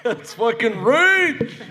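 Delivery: loud, high, drawn-out impersonation; slow put-on yell, hammed up with laughter; bad Nealon impression. Guest opens panel for the crowd, bad Nealon impression. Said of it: "That was my bad Nealon impression".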